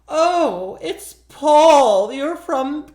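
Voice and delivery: high, loud, drawn-out eerie welcome; sing-song mock witch voice, way up high; spooky witch greeting. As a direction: greet the guest like a knowing ghost.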